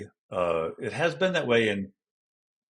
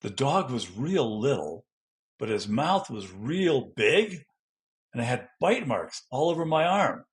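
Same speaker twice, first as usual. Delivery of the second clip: demonstration sentence; 3 semitones higher than usual. Shown as a demonstration. Demo sentence for descriptive gestures.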